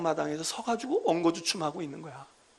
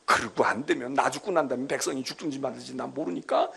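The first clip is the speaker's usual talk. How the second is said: David arguing back at God, raised and insistent; defiant pleading; 2 semitones higher, 3 dB louder than usual. Acted. David confronting God over the plague, insistent and raised. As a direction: push back at God, pleading but bold. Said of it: "하나님께 대드는 거야".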